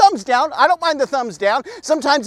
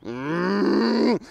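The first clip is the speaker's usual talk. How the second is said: long, drawn-out closed-mouth moo; humming cow moo; cow moo impression; 3 semitones lower, 6 dB quieter than usual. Shown as a demonstration. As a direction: moo like a cow, low and steady. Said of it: "I did a Moo impression".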